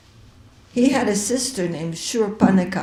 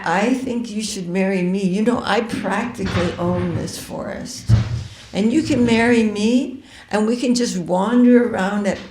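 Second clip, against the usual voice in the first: a lightly voiced demoness courting, first cry louder; flirting demoness; 2 semitones higher, 4 dB louder than usual. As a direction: coax him to marry you, lightly played. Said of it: "And she says".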